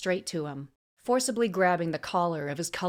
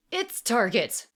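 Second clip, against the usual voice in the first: "Its target", higher, stressed on "Its"; corrective stress; 5 semitones higher, 4 dB louder, slower than usual. A narrator's reading. Assassin correcting her slip, stressing "Its target". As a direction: correct yourself, pointing up "Its target". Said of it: "she reiterated".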